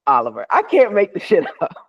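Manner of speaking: breathy aside to the host; disbelieving whispered aside. Real, not acted. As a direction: whisper it like a secret you can't believe.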